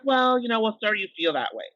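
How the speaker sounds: a hammed-up condescending manager; mocking a fake-sorry boss. Mocking HR head's dismissive reply.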